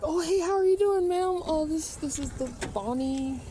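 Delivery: high, mocking imitation of the guys. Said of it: "They're like".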